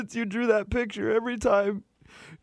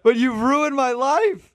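crying on the phone. Acted. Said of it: "Sir, are you crying?".

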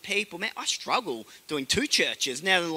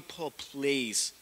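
mock begging; 5 semitones lower, 7 dB quieter, slower than usual. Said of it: "the governor's begging him".

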